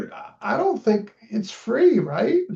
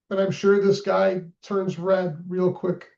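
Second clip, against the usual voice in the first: talking through hiccups and chewing; hiccuping while eating. Real, not acted. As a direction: hiccup mid-sentence with food in mouth. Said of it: "Oh, great, I got the hiccups".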